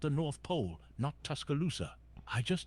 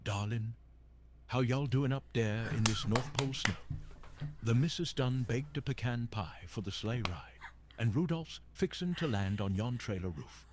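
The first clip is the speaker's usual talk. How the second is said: light Southern twang in an Alabama accent. Shown as a demonstration. Santa asked by a streamer to do Alabama, light Southern accent. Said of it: "Can you do a Alabama accent".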